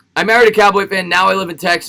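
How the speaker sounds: ordinary delivery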